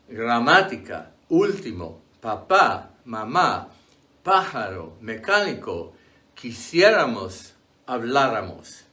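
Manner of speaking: gramática, último, papá, each stressed on the accented vowel. Shown as a demonstration. Teacher giving exceptions like mamá, stressed on the accented vowel. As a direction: punch the accented vowel in pájaro, mecánico, habláramos. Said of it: "on the vowel that is stressed".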